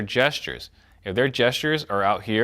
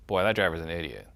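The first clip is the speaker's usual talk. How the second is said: quiet scoff; 4 semitones lower, 5 dB quieter than usual. Retold or imitated. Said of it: "someone was driving really slow".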